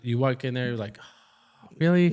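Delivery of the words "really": sudden high, loud disbelief; an exasperated, incredulous burst after a sigh; exasperated "Really?". Retold or imitated. Walking into the room, sighing.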